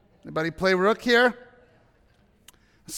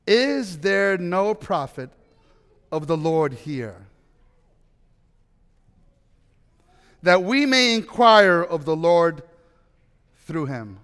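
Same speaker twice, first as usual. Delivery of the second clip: Jehoshaphat asking; 3 semitones lower, slower than usual. A narrator's reading. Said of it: "Jehoshaphat asked".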